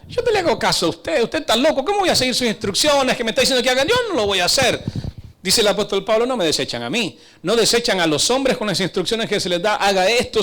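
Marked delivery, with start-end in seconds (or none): 0.1-4.8 higher-pitched voice of a defiant objector; objecting churchgoer. Acted. Churchgoer rebuffing the preacher's instructions, defiant higher-pitched protest. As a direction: protest as someone refusing instructions. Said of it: "cualquiera podría decir, oiga hermano".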